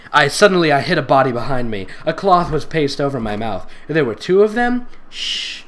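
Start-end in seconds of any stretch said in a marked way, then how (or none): 5.1-5.6 soft, low whispered coo. Acted. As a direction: coo it into an ear. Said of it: "the man cooed in my ear".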